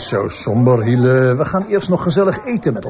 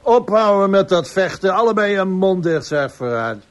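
raised, higher voice breaking up a fight; stern command; 5 semitones higher than usual. Acted. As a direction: shout them apart. (strenge bevelende uitroep om het gevecht te stoppen)

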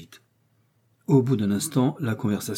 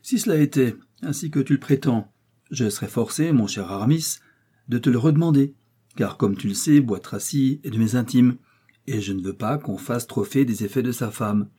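mock seriousness; 3 semitones higher, 3 dB louder than usual. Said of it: "avec un sérieux affecté".

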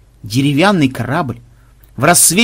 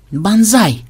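a touch of a feeble wheeze; weak croak; 7 semitones higher than usual. A narrator's reading. Programmer calling his captain over a discovery, weak croak. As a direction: call it out weakly, as if croaking. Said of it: "слабо прохрипел он".

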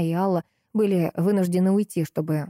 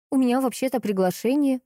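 attempted joke; 6 semitones higher than usual. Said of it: "попробовала я пошутить".

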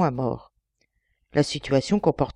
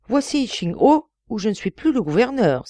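cried out; 6 semitones higher, 3 dB louder than usual. A narrator's reading. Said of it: "s'écria ce personnage".

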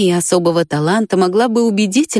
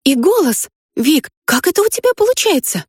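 put-on much higher, eager girl voice; excited girl's voice; 9 semitones higher than usual. A narrator's reading. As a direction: ask breathlessly how he does it. Risha excited.

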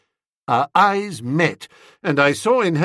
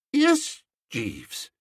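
choked, halting words; with difficulty; 10 semitones higher than usual. A narrator's reading. Awestruck master answering his valet, choked up. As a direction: struggle to get it out. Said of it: "speaking with some difficulty".

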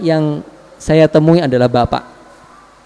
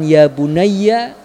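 tender address; much slower than usual. Shown as a demonstration. Father tenderly calling his son, drawn out slowly. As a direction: linger on bunayya like a tender father. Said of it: "dengan penuh kasih sayang".

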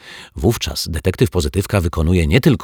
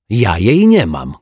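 raised, higher, louder denial; indignant shout; 4 semitones higher, 6 dB louder than usual. A narrator's reading. Zuzia denies having the clover, indignant shout. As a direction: shout it out in protest. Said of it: "krzyknęła Zuzia".

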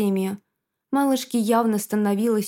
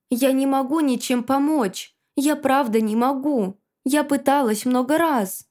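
strained, near breaking; 4 semitones higher than usual. Acted. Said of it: "говорила уверенно, хотя и с надрывом".

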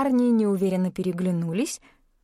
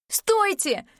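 calling after them; 12 semitones higher than usual. A narrator's reading. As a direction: shout after the backs of runners. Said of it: "крикнула она".

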